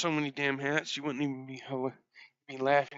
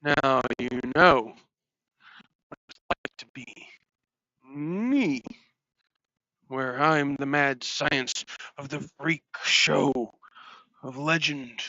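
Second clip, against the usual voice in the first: slow grandiose villain; slower than usual. Acted. Grandiose villain speech in costume.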